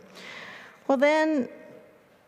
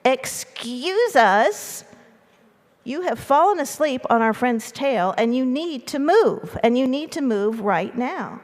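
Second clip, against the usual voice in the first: raised, higher voice, drawn-out opening; loud group yell; 5 semitones higher, 4 dB louder than usual. A narrator's reading. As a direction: call out firmly with stretched words, as the mice. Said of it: "yelled out together in their loudest possible voices".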